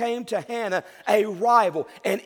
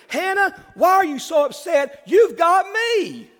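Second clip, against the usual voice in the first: higher and louder, proud husband bragging; hammed-up husband; 7 semitones higher, 6 dB louder, slower than usual. Husband Elkanah to sad wife Hannah, boastful and higher. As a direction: puff up like a husband showing off.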